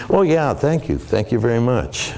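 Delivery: high, puffed-up, self-satisfied thank you; a mock cocky star brushing off praise; smug thanks. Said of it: "you're gonna say".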